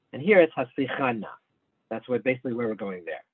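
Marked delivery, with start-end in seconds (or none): 0.5-1.2 Haslichana with the stress late in the word; stress on a later syllable. Shown as a demonstration. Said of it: "there's no little line under that".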